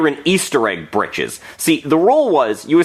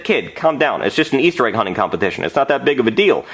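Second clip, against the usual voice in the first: put-on calm a kid down, offhand and low; a hint of a weary official brushing it off; dismissive mayor; 5 semitones lower than usual. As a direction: lower voice of a lightly acted mayor. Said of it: "And then the mayor said".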